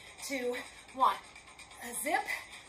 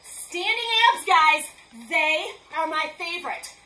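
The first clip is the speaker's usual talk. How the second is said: excited call-out; 8 dB louder, slower than usual. Real, not acted. Excited coach announces move.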